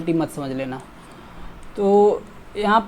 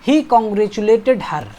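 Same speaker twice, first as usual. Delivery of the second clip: slow, louder reading; slow dictation; 2 semitones higher, 5 dB louder, much slower than usual. Shown as a demonstration. Teacher reading the quiz sentence slowly and loudly. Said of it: "congratulated on".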